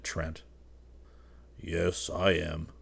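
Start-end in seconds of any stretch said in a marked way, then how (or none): 1.6-2.7 slow, resigned sigh of a reply; sighing admission. A narrator's reading. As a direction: own up slowly, with a sigh. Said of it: "sighed the other".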